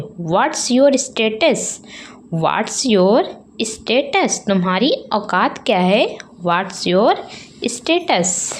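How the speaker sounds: scornful, slow what's your status; contemptuous. Shown as a demonstration. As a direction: sneer down at someone poorer. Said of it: "लोग गुस्से में बोल देते हैं". (तिरस्कार से)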